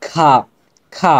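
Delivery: খা with its vowel held a little longer; slightly drawn out. Shown as a demonstration. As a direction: stretch the aa of খা slightly. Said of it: "একটু টান দিয়ে বলবো". (খা, একটু টান দিয়ে)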